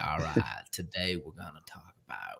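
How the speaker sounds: very low, very quiet Texan murmur. Describing how a man sounded when he talked, in a very slow Texas voice. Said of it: "he has that very slow Texas voice".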